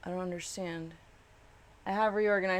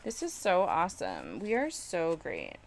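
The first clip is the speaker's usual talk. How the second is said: higher, hammed-up gushing; pretend enthusiasm; 4 semitones higher than usual. Crafter faking pride in an ugly piece, mock gushing. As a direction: fake it like you adore it. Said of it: "We're gonna pretend we love it".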